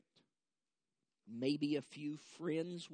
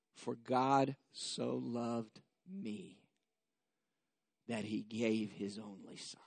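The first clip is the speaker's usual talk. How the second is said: personal verse; 4 semitones lower, slower than usual. Shown as a demonstration. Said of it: "substitute for world the word me".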